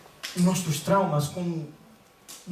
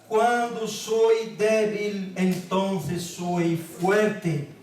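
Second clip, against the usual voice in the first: slow, solemn Bible reading; drawn-out, weighty reading from the pulpit; scripture reading; slower than usual. Real, not acted. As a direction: read the verse out slowly, phrase by phrase. Reads scripture aloud to congregation.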